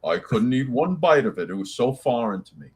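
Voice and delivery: lightly put-on British accent, slowing down; mock British accent. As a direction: imitate your co-host's British accent, teasingly. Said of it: "Why you do my accent like that".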